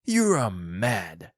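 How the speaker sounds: slow, emphatic accusation; drawn-out exclamation; cried protest. A narrator's reading. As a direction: cry it out slowly, aghast. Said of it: "Mister White cried".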